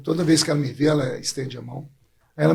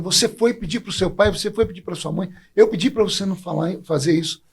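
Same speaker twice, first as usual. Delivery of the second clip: mild mock yell, somewhat higher; retold angry yelling; 4 semitones higher than usual. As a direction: replay the furious accusation, half-hearted. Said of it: "eu já cheguei gritando".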